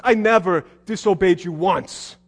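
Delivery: understated grievance; mild seething. Acted. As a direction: stress on I in "I never disobeyed you once". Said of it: "you can just hear him seething".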